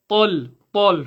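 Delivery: "tal" dark and heavy, as "tol"; emphatic, rounded "tal"; full-mouth emphasis. Shown as a demonstration. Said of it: "Fill your mouth with e".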